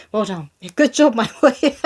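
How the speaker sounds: a lightly voiced proud father, laughing; proud dad. Dad praising his baby boy, a hint of hammed-up pride. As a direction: cheer the baby on like a beaming dad.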